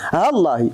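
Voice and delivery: "ها الله" as one word, hallaahi; short "ها" linked directly to the l of "الله"; hamza fully dropped. Shown as a demonstration. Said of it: "الهمزة ماشي غنحذفوها بالكلية". («ها الله» موصولة بلا ألف ولا همزة)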